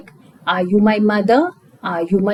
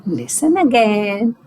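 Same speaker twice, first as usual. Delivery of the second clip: positive way. Shown as a demonstration. Teacher to child: "listen again", said kindly and encouragingly. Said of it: "there are two ways of saying listen again".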